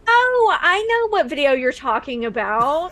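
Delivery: lightly voiced internet personality; a hint of gushing video-maker sweetness; sweet online star. Streamer winning over a grandmother at the door, lightly gushing.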